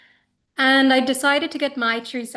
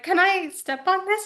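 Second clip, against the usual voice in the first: timid asking; 8 semitones higher than usual. Retold or imitated. Hesitant over dirty sneakers on cloth.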